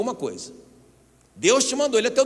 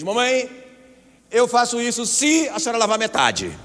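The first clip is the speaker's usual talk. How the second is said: higher, louder voice of a cheeky son; bargaining child; 7 semitones higher, 5 dB louder than usual. Acted. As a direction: play a child haggling with mum over chores. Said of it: "Imagina se o seu filho". (filho negociando com a mamãe)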